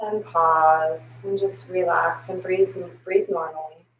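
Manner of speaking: slow, soft instruction; calm yoga cue. Acted. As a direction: ease them into rest. Guiding breath work.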